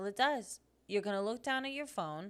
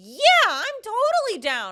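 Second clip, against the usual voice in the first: very loud, very high, keen, eager gush; 13 semitones higher, 15 dB louder than usual. Showing what not to say to a pity invite: imitating an eager reply. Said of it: "Don't eagerly say".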